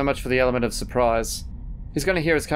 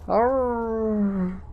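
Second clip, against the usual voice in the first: long, high groan of pain; drawn-out high cry of hurt; 8 semitones higher than usual. Acted. Wounded character cries out.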